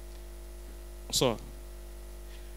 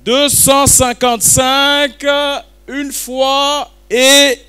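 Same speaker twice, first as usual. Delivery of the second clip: slow, stretched "Deux cent cinquante-cinq, une fois et"; drawn-out auction call; 5 semitones higher, slower than usual. Real, not acted. Auctioneer stretching out "Deux cent cinquante-cinq" slowly to build suspense. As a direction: hold each word of "une fois et" for suspense. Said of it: "je vais le dire trois fois".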